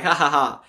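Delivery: spoken mock laughter, mild; half-acted "ha ha ha"; imitated wild laugh. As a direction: imitate a big laugh lightly. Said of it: "He's laughing wildly".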